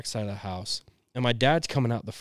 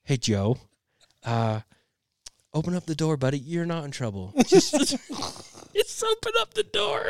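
fake calm coaxing; 4 semitones higher than usual. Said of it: "he's like".

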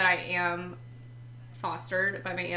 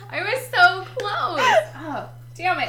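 laughing; 11 semitones higher, 8 dB louder than usual. Real, not acted. Laughing at mistaking Scout's costume, high laughing. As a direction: laugh through the words.

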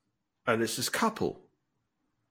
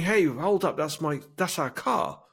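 high-pitched acted protest; lightly voiced indignant bystander in disbelief; wife in shock; 5 semitones higher than usual. Shocked wife objecting about their car in the gunfight, mock protest. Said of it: "she's in a state of shock".

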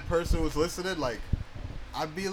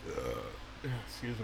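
talking through a burp; burping the words; 4 semitones lower, 12 dB quieter, much slower than usual. Real, not acted. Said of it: "Wow, you just gonna burp it?".

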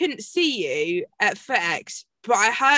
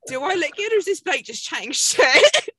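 higher, laughing, amused question; doubting the coach's praise; 5 semitones higher, 4 dB louder than usual. Retold or imitated. Athlete wondering if her coach is lying, laughing. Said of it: "And I'm like".

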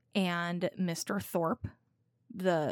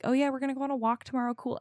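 fast casual; 4 semitones higher, much faster than usual. Retold or imitated. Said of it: "I'm like".

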